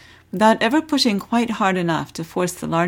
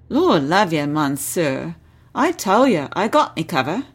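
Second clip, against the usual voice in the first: put-on Cockney accent. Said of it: "keep his Cockney accent".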